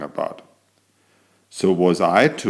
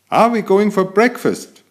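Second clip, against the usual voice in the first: eager question; 11 semitones higher, 3 dB louder than usual. Acted. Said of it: "I asked".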